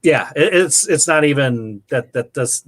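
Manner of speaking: halting, stumbling over the words; can't get the words out; stuttering. Real, not acted. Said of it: "I, I'm stuttering".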